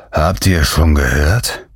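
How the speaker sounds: panting, slow and breathless; out of breath. Acted. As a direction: gasp the words out, out of breath. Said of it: "Er keuchte".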